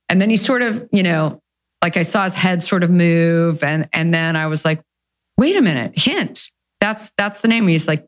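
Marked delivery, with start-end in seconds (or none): 5.4-7.7 eureka moment. Retold or imitated. Founder telling husband she found the name, excited higher voice. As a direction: relive the lightbulb moment.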